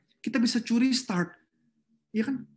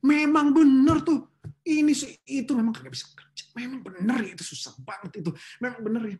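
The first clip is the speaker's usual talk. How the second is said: gossipy agreeing; 5 semitones higher, 3 dB louder than usual. Retold or imitated. Preacher mimics a coworker stoking office gossip. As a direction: egg the complaining on.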